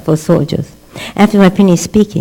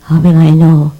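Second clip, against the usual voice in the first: higher, louder, impassioned preaching plea; pleading Abraham; 6 semitones higher, 6 dB louder than usual. Retold or imitated. Abraham pleading with God over the promise, impassioned. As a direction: beg God for certainty with fervour.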